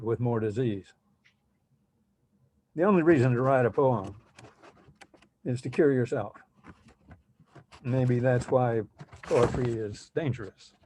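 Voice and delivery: deliberate recital with weighted pauses; poetry reading. Acted. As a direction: read your poem to an audience, phrase by phrase. Poet reads own poem aloud.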